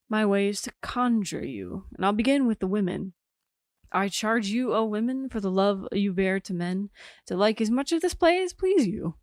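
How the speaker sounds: measured stage epilogue delivered to the audience; dramatic monologue recital. Acted. Player charging women and men to like the play, theatrical recital. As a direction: address the playgoers, lifting for each appeal.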